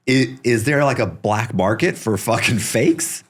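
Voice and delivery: laughing out the question, slow. Retold or imitated. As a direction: ask through your own laughter. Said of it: "he busted out laughing".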